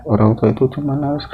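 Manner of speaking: plain reading voice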